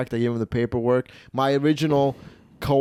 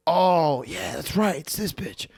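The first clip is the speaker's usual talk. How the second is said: lightly acted penny dropping, pitched up; Joe; 5 semitones higher, slower than usual. Joe remembering on the phone who Robert is, higher mock realisation. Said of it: "like, thinking".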